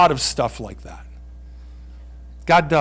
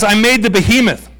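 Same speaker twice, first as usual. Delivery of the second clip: proud God voice; 4 semitones higher than usual. Retold or imitated.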